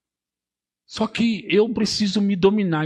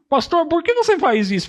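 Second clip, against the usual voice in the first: imitating a church member; 12 semitones higher, 4 dB louder than usual. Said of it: "Só que".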